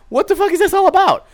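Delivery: squeaky put-on voice of a bewildered dog; confused dog voice. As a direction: voice the puzzled puppy. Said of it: "he's gonna be like".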